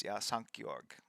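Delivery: ordinary delivery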